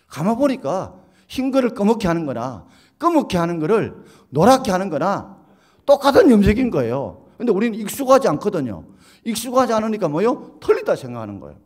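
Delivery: loud, high, building emphasis; preaching at full force. Real, not acted. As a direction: hammer the point home to the congregation. Preacher drives home his point. (힘주어 외치는 설교)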